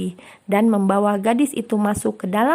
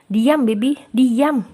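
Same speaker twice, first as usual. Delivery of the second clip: mildly angry, higher second command; snapping; 3 semitones higher, 3 dB louder, slower than usual. Acted. Agam silences his chattering cousin, mildly snapping. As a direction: cut the chatter off with a restrained snap. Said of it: "sentak Agam".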